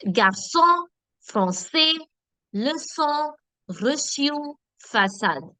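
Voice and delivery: garçon, français, leçon, reçu, façade each with soft S; soft S sound. Shown as a demonstration. Teacher drilling students on cédille words, soft S in each. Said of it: "helps us give the S sound".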